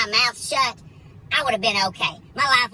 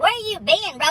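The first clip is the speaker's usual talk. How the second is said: exasperated; 7 semitones higher than usual. Retold or imitated. Arguing with the tow guy.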